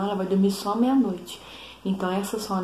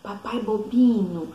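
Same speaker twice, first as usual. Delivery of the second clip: Peppa's teasing; 3 semitones higher, 5 dB louder, slower than usual. Retold or imitated. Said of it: "a Peppa fala assim pro papai dela".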